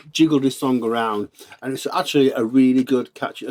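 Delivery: talking with a mouthful of halloumi; mouth full. Real, not acted. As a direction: speak round a bite of food. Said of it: "I've got halloumi stuck in my mouth".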